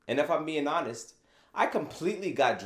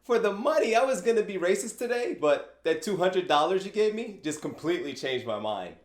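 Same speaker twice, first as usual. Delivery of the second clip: mock grateful racist; 6 semitones higher than usual. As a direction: ham up a sarcastic thanks from a bought-off racist. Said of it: "They'll get the money and say".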